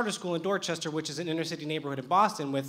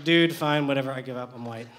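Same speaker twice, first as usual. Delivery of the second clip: giving up; 5 semitones lower than usual. Retold or imitated. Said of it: "I'm just like".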